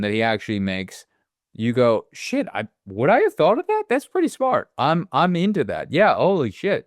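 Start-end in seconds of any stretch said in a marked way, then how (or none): 2.1-6.9 higher-pitched voice of a won-over viewer; impressed realization. Acted. Viewer reacting to a smart choice in the movie, impressed. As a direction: act out a viewer's pleasantly surprised reaction.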